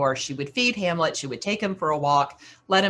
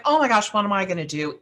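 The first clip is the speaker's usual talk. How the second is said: panicked; 2 semitones higher, faster than usual. Retold or imitated. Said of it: "In her panic".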